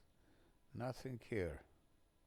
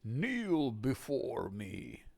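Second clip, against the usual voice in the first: megalomaniac rant; 3 semitones higher, 4 dB louder, much slower than usual. Retold or imitated. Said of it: "Regulus saying like that".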